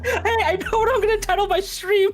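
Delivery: high, loud, laughing while talking; words breaking into laughter. Real, not acted. Laughing through a joke.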